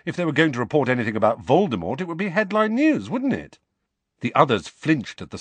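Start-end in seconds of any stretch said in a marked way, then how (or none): 0.1-3.6 put-on fast, rising boy's voice; Harry sure he's right; Harry, insistent. A narrator's reading. Harry argues with Hermione, fast and insistent.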